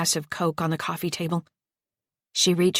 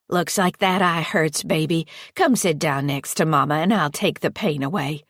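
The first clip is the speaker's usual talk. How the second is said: lightly voiced sugary stepmother, coaxing; a creepy mother figure cooing at a hurt kid; Patty's coaxing voice. Creepy foster mother coaxing the hurt child, sweetly.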